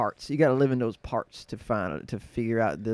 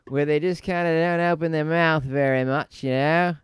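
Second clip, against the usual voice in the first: closed-mouth lazy Australian; Australian accent; 2 semitones higher, 4 dB louder than usual. Shown as a demonstration. Guest showing how Australians barely open their mouths, Australian accent. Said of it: "very similar to Australian in that sense".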